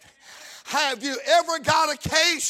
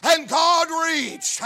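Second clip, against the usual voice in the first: emphatic; 4 dB louder than usual. Real, not acted. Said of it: "I said".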